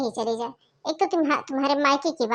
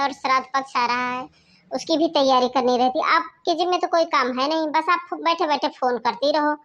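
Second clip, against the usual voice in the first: louder, fed-up complaining; irritated scolding; 3 dB louder than usual. Acted. Sister-in-law grumbling at the caller about her workload, louder irritated. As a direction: complain she has no time for this.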